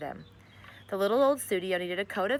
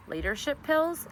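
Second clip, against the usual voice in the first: surprised question; 8 semitones higher than usual. Acted. Mrs Semicolon questions the odd remedy.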